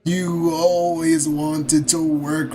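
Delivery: a weary brother pleading in slow motion; slow strained character voice. Acted. Brother scolding his sibling about wasted time, slow strained voice. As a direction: drag every word out slowly, straining the throat. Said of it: "Talking like that's killing my throat".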